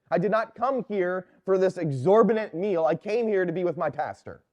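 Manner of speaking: mild retold scolding. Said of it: "she laid into that priest".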